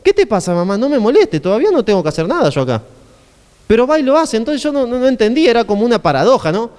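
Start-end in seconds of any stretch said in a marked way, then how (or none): 0.0-2.8 lightly acted irritated son; mock scolding. Son refuses his mother's request, mock scolding. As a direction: brush mother off with a mild telling-off. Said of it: "Yo siempre le entendí así".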